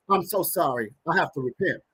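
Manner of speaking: low, subdued retold apology; understated imitation of a tearful repentance; tearful contrition. Retelling mother's apology to the pastor, understated tearful contrition.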